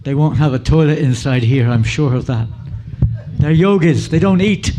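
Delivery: rising, emphatic protest to yourself; retold worried thought. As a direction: build from firm to high, loud insistence. Retold nervous thought outside temple.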